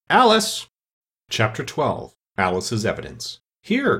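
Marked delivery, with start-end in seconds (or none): 0.1-0.7 very high, piercing call; top-of-the-voice shrill squeal; shrill little voice. A narrator's reading. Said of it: "at the top of his shrill little voice". 3.6-4.0 very high, quick call; flustered high-pitched cry; startled cry. A narrator's reading. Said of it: "cried Alice".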